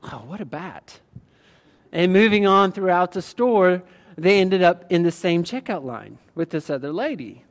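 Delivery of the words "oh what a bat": low, very quiet, under-the-breath mutter. Retelling what a mom muttered about another shopper, under her breath. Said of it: "under her breath".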